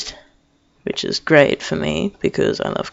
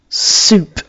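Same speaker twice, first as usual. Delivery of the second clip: mock revelation; 3 semitones higher, 3 dB louder than usual. Repeats the revelation on looking.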